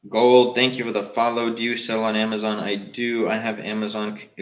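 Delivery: ordinary talk, nothing marked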